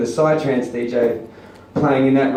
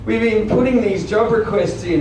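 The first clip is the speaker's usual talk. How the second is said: mimicking the council guys; 8 semitones higher than usual. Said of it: "They're like".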